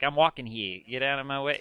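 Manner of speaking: lightly put-on New York accent; a hint of brusque New Yorker. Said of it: "a New Yorker probably would just be like".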